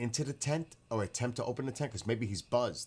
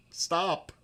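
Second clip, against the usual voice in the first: louder, higher stop half-laughing; laughing plea; 8 semitones higher, 6 dB louder than usual. Real, not acted. Streamer pleading with the chat, high and loud. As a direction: beg them to quit, cracking up.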